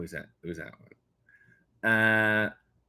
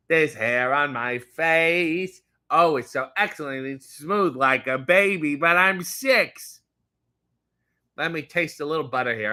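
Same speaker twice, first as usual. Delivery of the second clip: put-on six-year-old shaving with butter. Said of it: "You are six years old".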